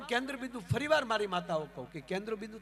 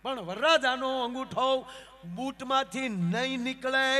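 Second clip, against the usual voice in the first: stubborn refusal; 4 semitones higher, 8 dB louder, slower than usual. Acted. Groomsman stubbornly refuses the priest.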